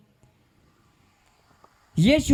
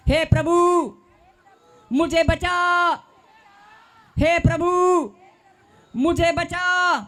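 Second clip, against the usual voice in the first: cry for help; 7 semitones higher than usual. Acted. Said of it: "पतरस ने क्या कहा था?".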